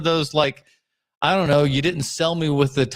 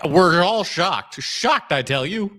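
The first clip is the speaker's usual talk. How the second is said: sarcastic; slower than usual. Acted. Sarcastic mock surprise.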